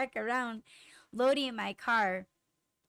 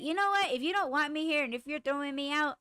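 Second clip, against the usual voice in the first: high, quick, indignant retort; heated retold comeback; 5 semitones higher, faster than usual. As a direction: re-enact an indignant challenge, pitched up and rushed. Voices a heated imagined comeback.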